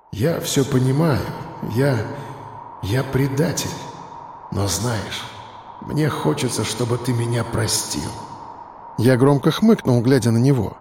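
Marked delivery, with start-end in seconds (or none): 0.1-8.1 тихо, с дрожью, с запинками; признаётся с трудом; дрогнувший голос. A narrator's reading. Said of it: "и голос его дрогнул". (тихо, с дрожью, виновато)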